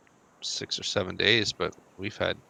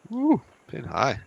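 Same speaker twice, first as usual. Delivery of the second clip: golf commentator; 9 semitones higher than usual. Pretend. Calling the golf shot.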